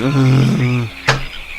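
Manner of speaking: imitated heavy slump with a breathy exhale; kerplop noise. Showing how the teacher dropped onto the desk, slumping sigh. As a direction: let out a limp, collapsing sigh. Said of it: "like that on the fucking desk".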